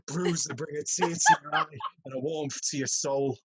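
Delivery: mild mock rousing speech, slow ending; lightly voiced stirring pep talk; roaring rallying speech. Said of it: "he steps into an office and he's like".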